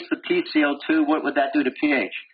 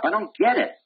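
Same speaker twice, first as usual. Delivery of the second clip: higher, whiny puzzled student; a touch of a baffled student; mock confused student; 7 semitones higher than usual. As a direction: play the student who doesn't get it. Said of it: "How do students screw that up?".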